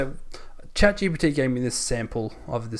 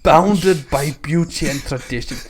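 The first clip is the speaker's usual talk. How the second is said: mock Scottish narration; comic Scottish storyteller; Scottish accent; slower than usual. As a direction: read on in a lightly put-on Scottish accent. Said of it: "Do it all in that accent from now on".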